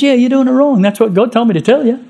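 a hint of a blunt messenger; lightly voiced prophet.

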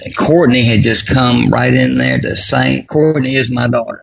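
ordinary talk

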